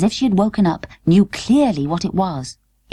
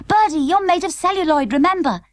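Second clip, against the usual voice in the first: mild mock scream; 10 semitones higher than usual. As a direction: plead to take her place. Totty warning Birdie.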